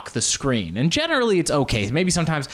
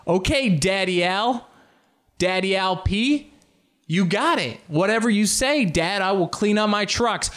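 lightly voiced child, pitched up; obedient kid; 6 semitones higher than usual. Pacino's kid answering dad, lightly put-on child voice. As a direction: play a compliant little kid, a bit higher. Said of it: "imagine being Pacino's kids".

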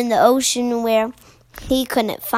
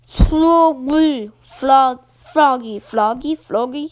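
puffed-up pufferfish; 4 dB louder than usual. Acted. Blowfish tries the name.

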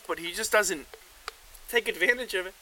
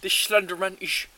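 laughing mock lecture; 4 dB louder than usual.

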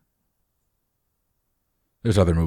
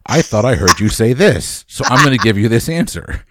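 Alexa voice assistant; 3 semitones higher, 4 dB louder than usual. Retold or imitated. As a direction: read it out like a dim smart speaker. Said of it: "He's more like Alexa".

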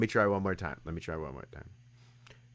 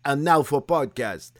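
mock Russian accent. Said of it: "No, I can't do it".

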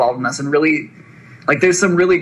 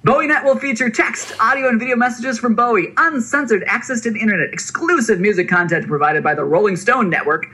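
hype voice; 2 semitones higher than usual. Acted. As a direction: sell it like a carnival barker. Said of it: "use a hype voice".

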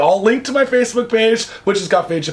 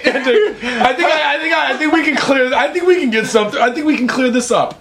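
smooth talker; 6 semitones higher than usual. Retold or imitated. Suspect smooth talk, high.

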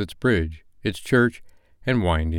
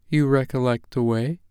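higher, solemn ghostly warning; ghost of Christmas past; 5 semitones higher than usual. Acted. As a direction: speak as an otherworldly spirit giving a warning. Ghost asks Scrooge.

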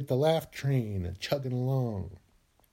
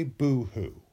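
hammed-up boo-hoo sobbing fading softer; mock crying; 4 semitones lower, 5 dB quieter, much slower than usual. Shown as a demonstration. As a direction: pretend to sob, trailing off. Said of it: "Be sad and say".

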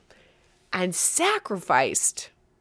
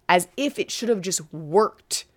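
whisper. Real, not acted. Mocking whispered aside.

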